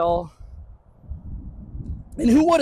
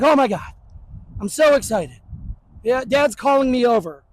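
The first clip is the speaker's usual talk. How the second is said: mock excited dog. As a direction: play the dog overjoyed to be called. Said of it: "he's so excited".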